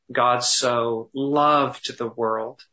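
slow, "loved" lifted and rising; stress on loved. Shown as a demonstration. Pastor showing meditation, stress on "loved". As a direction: linger on "loved" in "God so loved the world". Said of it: "emphasizing one word at a time".

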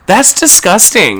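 half-laughing That's disgusting. Retold or imitated. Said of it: "I'm like".

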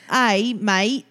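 attempted Australian "mate"; failed Australian accent. Shown as a demonstration. Giving up on the attempt, poor Australian accent. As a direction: badly try an Australian greeting. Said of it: "I can't do Australian".

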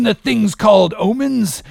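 high, projected scorn; proclaiming. Acted. Captain addressing his men about omens, proclaiming. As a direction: declaim it to the whole crew.

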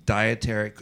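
"dietary" set apart as if in air quotes. Real, not acted. Mocking the hospital's so-called dietary staff, "dietary" in air quotes. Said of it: "in air quotes that I'm making".

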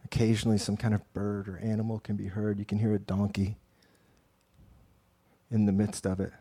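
calm storyteller guiding prayer; guided meditation narration. Acted. Guided imaginative scene narration.

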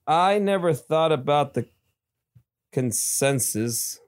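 "consensus" dragged out slowly; wrong word read out. Shown as a demonstration. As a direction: stretch "consensus" as the misused word. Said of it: "Supposed to be consequences".

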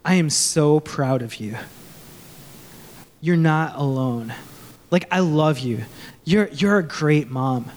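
gently affirm, leaving room between phrases; a lightly voiced fatherly encouragement, pitched low; God. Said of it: "you would hear him say".

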